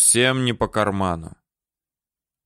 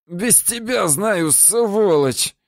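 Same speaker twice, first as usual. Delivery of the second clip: put-on high, slow drunken yell; angry shout; 10 semitones higher, much slower than usual. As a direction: shout it after him in spite. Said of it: "зло крикнул ему вслед Яша".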